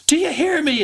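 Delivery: very high, angry demand; mad Trixie. Acted. Mad Trixie pokes her crying friend, angry high voice. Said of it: "kinda looking really mad".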